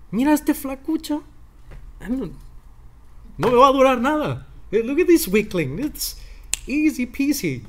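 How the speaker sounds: high, sneering giant voice; mocking giant. Goliath sizing up David, sneering in a high voice. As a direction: taunt the scrawny boy like a cocky giant. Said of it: "the Goliath must have said".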